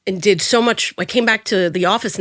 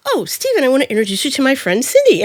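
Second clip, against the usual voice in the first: high cheery greeting; 6 semitones higher than usual. Retold or imitated. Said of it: "Dustin says".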